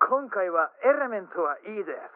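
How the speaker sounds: mock foreign learner's broken Japanese; broken foreigner's Japanese. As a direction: announce it like a foreigner parroting a memorised line. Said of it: "なんか変な片言言った".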